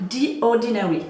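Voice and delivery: brand name said with a mock English accent; a quick stab at English pronunciation of "The Ordinary"; self-mocking English accent. Real, not acted. French vlogger naming a skincare brand, in a self-mocking English accent. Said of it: "Oh, avec mon super accent".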